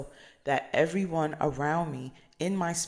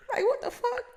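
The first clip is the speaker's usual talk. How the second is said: high, laughing "what the fuck"; real laughter breaking into the words; laughing disbelief. Real, not acted. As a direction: laugh it out in shock. Laughing at a stranger's hug.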